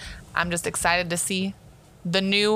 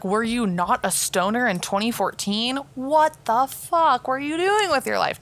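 mock outrage; 4 semitones higher, slower than usual. Mock scolding of friends, then kidding.

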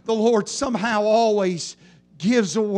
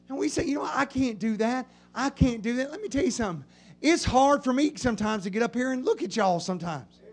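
quiet aside; 5 dB quieter, faster than usual. Real, not acted. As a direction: pull the congregation close, softly. Quiet confession in sermon.

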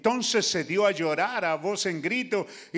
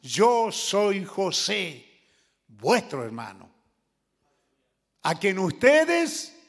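slow, drawn-out solemn reveal; Joseph revealing himself; 4 semitones lower, slower than usual. Acted. Joseph to his brothers, slow solemn reveal. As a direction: let each phrase land slowly, with weight. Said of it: "Y dijo José a sus hermanos".

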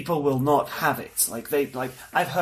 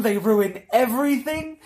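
mock anti-French rant; 6 semitones higher than usual. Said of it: "are like".

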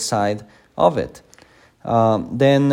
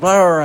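loud, higher imitated possessed growl; demoniac roar; 6 semitones higher, 6 dB louder than usual. Preacher showing how the possessed acted, roaring. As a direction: mimic a raving demoniac's roar. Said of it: "they are like".

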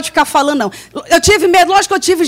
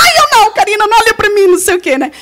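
put-on higher, flustered girl's voice; girls protesting; 5 semitones higher, faster than usual. The girls begging her not to look, flustered. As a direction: imitate the shy girls squirming. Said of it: "As meninas".

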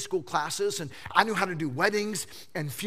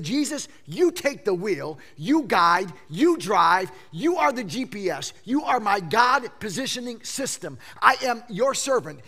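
fervent prayer; 6 dB louder than usual. Acted. Believer's prayer to Jesus.

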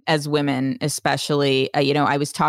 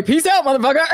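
laughing brush-off; 9 semitones higher, 4 dB louder than usual. Retold or imitated. Mock brush-off while leaving aisle.

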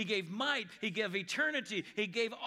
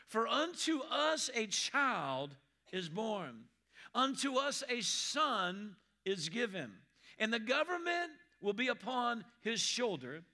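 scripture reading; slower than usual. Acted.

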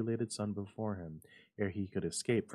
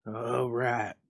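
high, louder, trembling tone; shaking voice; 4 semitones higher, 7 dB louder than usual. A narrator's reading. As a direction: tremble as you say it. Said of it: "said the old man in shaking tones".

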